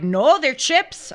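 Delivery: high, slow, drawn-out mock insistence; mock Irish insistence. Telling the host how the Irish insist, slow and high. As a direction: stretch it out like a stubborn local. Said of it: "And they're like".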